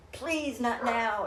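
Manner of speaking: slow, drawn-out plea; mild retold plea, stretched out; silent plea. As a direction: plead slowly under your breath. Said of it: "in my head".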